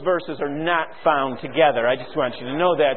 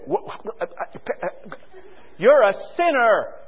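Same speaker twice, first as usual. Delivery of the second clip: mock outrage; 4 semitones higher than usual. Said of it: "You say".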